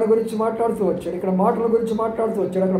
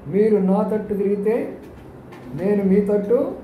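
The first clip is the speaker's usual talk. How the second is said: savoring the verse; slower than usual. Shown as a demonstration. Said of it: "ఇక్కడ ఉన్న మాట చూసారా?".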